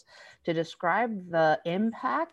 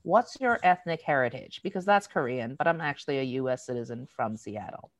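retold patient explanation, settling as it goes; mildly instructive reply; patiently educational. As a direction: explain it like a kindly teacher. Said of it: "I'm feeling expansive and educational".

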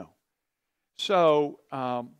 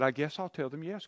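hesitant. Retold or imitated. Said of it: "But I said".

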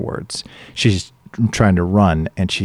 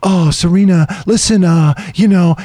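softy talky talk; 9 semitones higher, 4 dB louder than usual. Retold or imitated. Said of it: "he's trying to do this whole, like, softy talky talk stuff".

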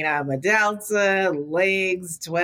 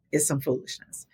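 normal talking voice

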